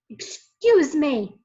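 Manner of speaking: loud, slow shout; boy shouting through a crowd. A narrator's reading. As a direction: call out to clear a path. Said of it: "he shouted".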